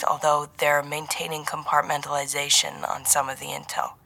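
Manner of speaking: lightly voiced handler, hushed and guarded; brief the agent softly and carefully; serious handler. Handler briefing agent on the intel, soft and guarded.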